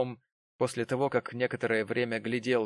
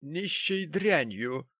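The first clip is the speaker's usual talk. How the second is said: lady's correction; 6 semitones higher, much slower than usual. Acted. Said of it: "поправила его дама".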